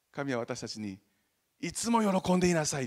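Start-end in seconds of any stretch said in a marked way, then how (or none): 1.6-2.9 higher, louder exhortation; God's command. Retold or imitated. God telling his people to always rejoice, exhorting. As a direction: urge it warmly like a loving command. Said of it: "って言ったんです".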